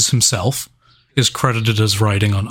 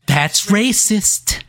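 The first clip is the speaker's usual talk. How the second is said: mock outrage; 9 semitones higher, much slower than usual.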